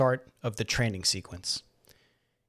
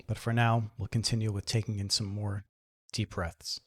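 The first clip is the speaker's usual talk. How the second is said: guided meditation. Acted. Guide helps listeners settle into the chair and breathe, calm meditation voice. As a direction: gently talk them into relaxing.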